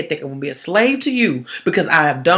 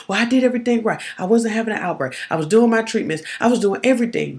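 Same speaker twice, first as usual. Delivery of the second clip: panicked thought; 6 semitones higher, faster than usual. Retold or imitated. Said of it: "You're thinking".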